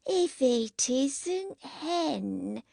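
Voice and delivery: high, very drawn-out tipsy greeting; drunk woman. A narrator's reading. Drunken Jackie hails her old lover Henry, slow and tipsy. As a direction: stretch the words out like a happy drunk.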